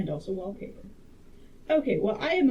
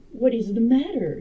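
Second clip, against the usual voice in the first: startled louder cry; 3 semitones higher, 9 dB louder than usual. Acted. Husband bursting into the room, crying out in alarm. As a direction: call it out in alarm. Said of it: "he cried".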